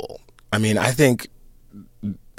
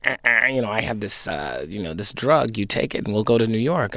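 lightly mocked-up stage villain; a hint of hammy cartoon villainy; Snidely Whiplash; faster than usual. Actor mocks an obvious drug-pusher villain, lightly hammed-up. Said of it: "Snidely Whiplash going".

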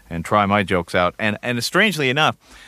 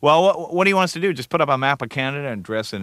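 higher-pitched mock exasperation; joking mock retort; 5 semitones higher, faster than usual. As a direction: toss it out like a sarcastic suggestion. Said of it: "as a joke, we said to them".

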